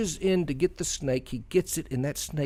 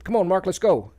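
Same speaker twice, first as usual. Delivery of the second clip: retold urging; 6 semitones higher, 7 dB louder than usual. Roommates urging him along.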